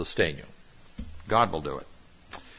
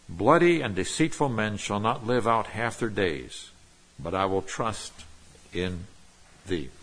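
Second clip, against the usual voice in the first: measured, solemn reading of the psalm; scripture reading. Acted. Pastor reading the psalm to the congregation, solemn.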